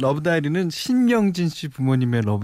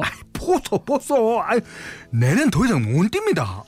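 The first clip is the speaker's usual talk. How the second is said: high, panting plea; out of breath; 10 semitones higher than usual. Acted. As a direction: gasp it out, too tired to run. Man running out of breath.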